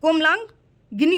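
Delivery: कोमलांगिनी slowly as komlang-gini; deliberate, slow कोमलांगिनी; sounded out. Shown as a demonstration. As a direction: break कोमलांगिनी into slow parts. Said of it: "क्या होता है".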